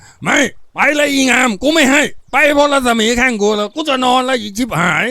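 high, loud cursing shout; angry dismissal. Acted. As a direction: chase someone out at the top of your voice. Man throws woman out. (ตะเพิดไล่เสียงดัง)

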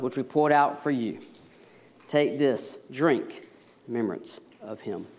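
measured, reverent words of institution; solemn communion liturgy. Acted. Pastor to congregation at the Lord's table, solemn and reverent.

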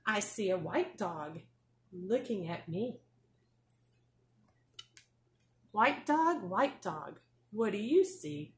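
sing-song picture book reading; reading to a toddler. Acted. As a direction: read it bright and bouncy for little kids. Teacher reads picture book to class.

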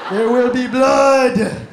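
slow, loud dramatic threat; hammed-up menacing pronouncement; ominous movie line. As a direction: play the menacing villain.

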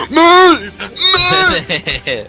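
high yelled order to move; shouting orders over battle. Real, not acted. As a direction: scream at him to get out the way. Teammate blocking the way.

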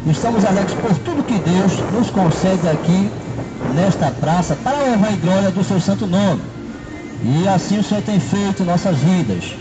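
ordinary delivery

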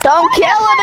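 very high-pitched yell; frantic protest. Real, not acted. Player defends pet cow from friend, frantic shriek. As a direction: shriek it to stop them. Pleading for the cow's life.

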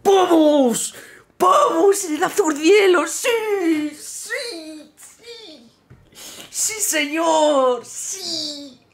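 high, very loud victory yells; cheering like the winning goal just went in; ecstatic shouting. Real, not acted. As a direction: scream with joy at the drop. Wins the crate he wanted.

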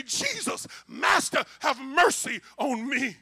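preacher acting out a desperate shout; shouted plea. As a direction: beg out loud, stretching the last words. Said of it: "here they are shouting".

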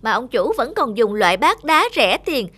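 haughty sniff and sneer; khinh khỉnh. Acted. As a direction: look down on the cheap bowl. Bát sứ khinh bát đá. (bát sứ khinh khỉnh chê bát đá)

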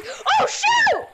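sudden alarmed outburst; startled gasp. Real, not acted. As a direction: caught off guard, rising alarm. Ambushed in game, startled.

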